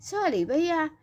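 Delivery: put-on frightened child apologising sweetly; sweet lisping little girl. A narrator's reading. Little girl says sorry to the shop worker, sweet and lisping. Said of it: "अपनी प्यारी सी तोतली सी आवाज़ में बोली".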